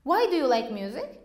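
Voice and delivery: the question rattled off fast; quick repeat. Shown as a demonstration. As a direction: say it again at normal speed, quickly. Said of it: "If I say".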